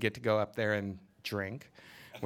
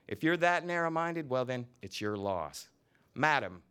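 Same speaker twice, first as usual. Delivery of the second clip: lively novel reading, voicing each character; story reading; 3 semitones higher than usual. A narrator's reading. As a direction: read the scene aloud with relish. Author reads novel scene aloud.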